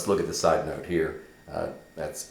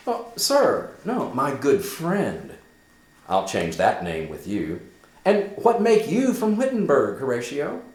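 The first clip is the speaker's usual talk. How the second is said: high, louder, eager questioning; Hamlet's eager questions; 8 semitones higher, 6 dB louder than usual. Acted. Hamlet asking Horatio why he came, higher and eager. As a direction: press a dear friend gladly. Hamlet reading his lines.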